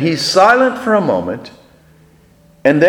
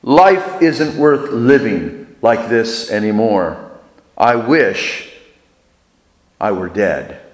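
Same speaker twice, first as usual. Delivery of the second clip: moaning; 5 semitones lower than usual. Retold or imitated. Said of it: "he finally moans".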